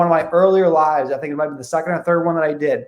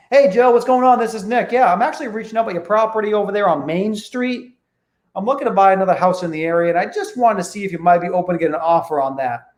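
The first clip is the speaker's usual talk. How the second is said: upbeat friendly opener; 2 semitones higher than usual. Shown as a demonstration. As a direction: sound like you already know him. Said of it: "You know the opening now".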